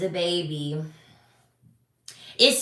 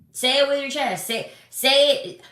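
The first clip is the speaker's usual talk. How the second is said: pitched up, punchy insistence; say it with your chest; 6 semitones higher than usual. Real, not acted. To men who backpedal, a raised insistent demand. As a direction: demand it, each word pushed.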